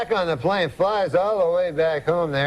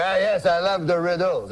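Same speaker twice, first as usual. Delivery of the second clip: put-on higher-pitched French-Canadian accent; French-Canadian uncle; 4 semitones higher than usual. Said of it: "That's how he talks".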